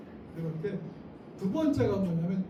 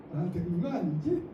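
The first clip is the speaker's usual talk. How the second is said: easy joking tone, softer; light, not stern; 3 semitones lower, 3 dB quieter than usual. Shown as a demonstration. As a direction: brush it off lightly. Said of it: "정색하지 않고". (정색하지 않고 가볍게 넘기듯)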